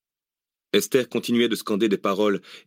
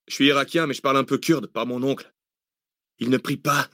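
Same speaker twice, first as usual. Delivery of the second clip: lightly voiced underling, pitched higher; hesitant militiaman; 5 semitones higher than usual. A narrator's reading. Iraqi militiaman explains the chant to his chief, slightly higher voice. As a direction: explain timidly higher to the boss.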